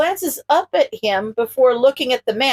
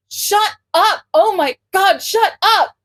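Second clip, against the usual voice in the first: flustered shout; 8 semitones higher, slower than usual. A narrator's reading. Izuku punching laughing Mio, embarrassed and shouting. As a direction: yell it while swatting a friend. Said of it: "delivering quick punches on every word".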